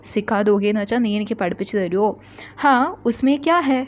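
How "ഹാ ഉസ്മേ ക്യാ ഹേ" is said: higher, playful copy of the little brother; teasing echo. Acted. Big brother playfully mimics his little brother, voiced higher. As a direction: mimic the kid's cheerful yes.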